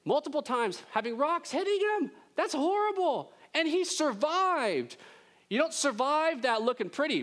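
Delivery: high, loud, worked-up preaching; impassioned. Real, not acted. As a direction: really stress how horrible it was. Preacher stirred about the stoning.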